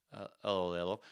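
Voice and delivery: ordinary delivery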